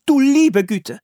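high, loud cry of shock; woman's exclamation. A narrator's reading. Settler woman discovering the trapped boy, loud startled cry. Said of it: "rief eine Frau".

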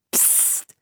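a sharp whispered shush. Acted. Philipp hushing Anne in the rustling leaves. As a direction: hush her without a sound of voice. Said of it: "machte Philipp".

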